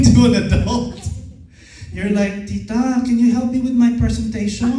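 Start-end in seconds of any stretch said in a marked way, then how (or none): 2.5-4.7 mock little-kid voice, higher and pleading; hammed-up childish asking. Trainer mimics trainees asking an aunt for help, little kid. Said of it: "you sound like a little kid".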